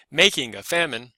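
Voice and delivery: MAK-ing a FAM-ine, first syllables stressed; front-stressed verse. Shown as a demonstration. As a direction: lean on the openings of "making" and "famine". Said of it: "or something different".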